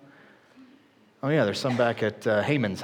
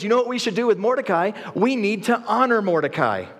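excited king; 8 semitones higher than usual. Retold or imitated. Preacher retells excited king.

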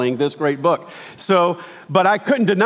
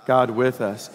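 congregation response; 5 semitones lower, slower than usual. Real, not acted. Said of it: "say it together with me".

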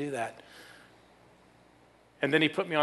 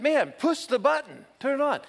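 much louder and higher, slowed and insistent; raised voice, pushing the nurse to act; loud demand; 10 semitones higher, 4 dB louder than usual. Retold or imitated. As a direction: yell it so the hallway hears. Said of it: "say it a little louder".

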